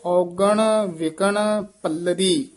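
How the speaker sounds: ਵਿਕਣ spoken softly and loosely, ਪੱਲਰੀ with a tight doubled consonant; soft and tight words. Shown as a demonstration. Teacher showing students ਵਿਕਣ loose, ਪੱਲਰੀ tight. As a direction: ease through ਵਿਕਣ, press the double ਲ in ਪੱਲਰੀ. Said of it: "ਵਿਕਣ ਪੋਲਾ ਬੋਲਣਾ ਹੈ".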